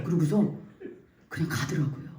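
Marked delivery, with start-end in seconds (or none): none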